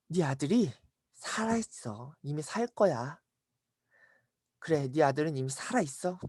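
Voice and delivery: soft, unhurried assurance; calm reassurance. Acted. Jesus tells the father his son lives, soft and calm. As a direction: settle the worried listener quietly.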